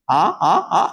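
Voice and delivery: "A, a, a." with lips kept apart, no b or m; lips apart demo. Shown as a demonstration. Teacher showing what happens without touching lips, open-lipped "A, a, a.". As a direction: show "A, a, a." open-lipped, unable to close. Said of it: "tanpa nempel bibirnya".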